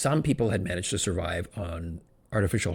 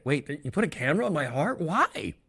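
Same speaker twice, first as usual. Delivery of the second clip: alarmed customer; 6 semitones higher than usual. Acted.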